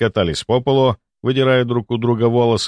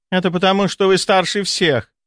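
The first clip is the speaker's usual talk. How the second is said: high, slowed, mocking jab; snide; 10 semitones higher than usual. A narrator's reading. Young sister mocking the older lady, snide and high. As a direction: needle the older lady sweetly. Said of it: "съязвила".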